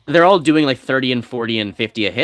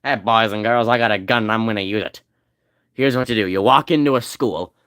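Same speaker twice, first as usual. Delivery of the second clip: put-on southern accent. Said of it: "is that a southern accent?".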